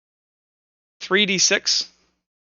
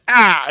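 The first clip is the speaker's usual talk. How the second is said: mock dying cry; 3 dB louder than usual. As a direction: give a brief pretend cry as the creature collapses. Voices dying creature's last cry.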